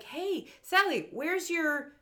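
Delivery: high, drawn-out mock kid voice; cartoon boy. Boy asking Sally about her gear, mock cartoon boy. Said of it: "he's like".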